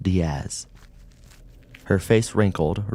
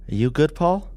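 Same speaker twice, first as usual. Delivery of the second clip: higher, louder woman's voice; concerned partner; 9 semitones higher, 5 dB louder than usual. A narrator's reading. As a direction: check on him gently but urgently. Maria asks worried partner.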